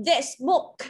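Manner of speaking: "This" in "This book" with a quick, short vowel; "This book" with a brief i in "This". Shown as a demonstration. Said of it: "Thì ở đây là in ngắn".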